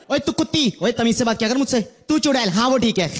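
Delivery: mock offended woman.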